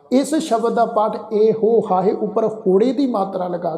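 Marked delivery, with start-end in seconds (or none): 1.3-1.8 ਇਹ ਹੋ run as e-ho with a long o; wrong reading eho. Shown as a demonstration. Teacher showing the reading to avoid, ਇਹ ਹੋ with long o. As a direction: say ਇਹ ਹੋ ending on a full o vowel. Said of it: "ਨਹੀਂ ਕਰਨਾ".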